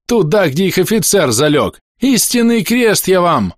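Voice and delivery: high, exultant, stretched at the end; excited exclamation. Acted. Gunner pointing to where the officer fell, excited. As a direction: swear to it with mounting excitement.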